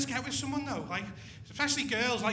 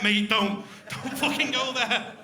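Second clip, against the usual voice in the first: warning; 4 dB louder, slower than usual. Retold or imitated. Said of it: "I was like".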